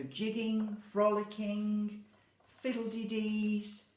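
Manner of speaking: lively. Shown as a demonstration. Teacher savouring lively dance words for children. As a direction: savour each word with cheer. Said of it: "acting out lively words".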